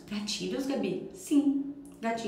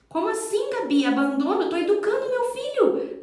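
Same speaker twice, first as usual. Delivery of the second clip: much higher, put-out voice of a doubting parent; incredulous objection; 10 semitones higher than usual. Retold or imitated. Parent indignantly protesting to Gabi, sharply higher and incredulous. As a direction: rise up high in disbelief, defending yourself.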